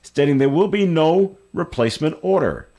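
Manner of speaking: reading a news item aloud. Real, not acted. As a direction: read it out like a radio news story.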